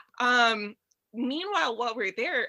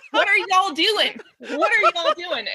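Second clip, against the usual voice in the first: loud laughing put-on Southern accent, higher; mock Southern accent; 8 semitones higher, 11 dB louder, slower than usual. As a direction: play up a Southern drawl through laughter. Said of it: "you picked up a Southern accent".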